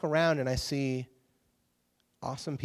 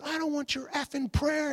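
mock dismissive retort; 11 semitones higher, 3 dB quieter than usual. Singer telling the praying group off, mock scornful. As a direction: toss it off with a scornful edge.

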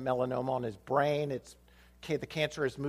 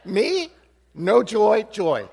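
mock gloomy; 6 semitones higher, 9 dB louder, much slower than usual. Comic contrast with the students.

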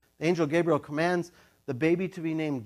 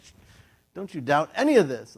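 1 hushing warning; 7 dB louder than usual. Retold or imitated. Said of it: "So he's like".

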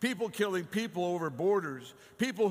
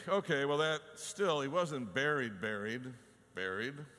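raised preaching voice. Acted. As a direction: push it up, insistent. Preacher voicing skeptics.

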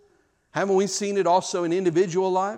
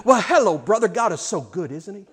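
fake cheer. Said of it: "all of a sudden he slams the door".

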